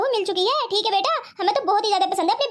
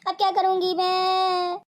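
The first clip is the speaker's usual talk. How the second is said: tearful lament. Acted. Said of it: "तुम तो ऐसे रो रही हो".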